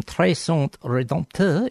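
slow, self-mocking bad French accent on Très Saint Redempteur; hammed-up French accent on the Quebec town name, drawn out. Shown as a demonstration. Host jokingly tries the French town name, bad French accent. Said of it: "in my best bad French accent".

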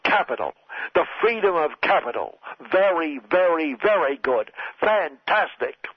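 a hint of Trump, puffed up with pride; proud Trump impression. Satirist voicing Donald Trump.

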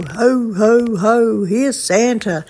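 a hint of a squeaky Santa. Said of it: "in his squeaky voice".

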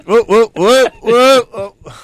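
high, loud whoop whoop cheer; mock cheering whoops. Cheering imitation.

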